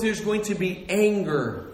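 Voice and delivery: ordinary talk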